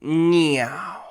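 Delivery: dad sends his son upstairs, loud and slow; stern dad. Retold or imitated. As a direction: bark the order like a strict dad. Dad ordering child upstairs.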